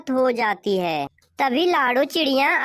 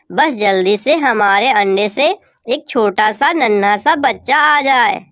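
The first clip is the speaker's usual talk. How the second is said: louder, bright-eyed wife crow in disbelief; Gori crow, happy wife; 11 dB louder than usual. Acted. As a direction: play the thrilled mother crow loud. Narrator voices Gori crow. (खुश कौवी की ऊँची आवाज़)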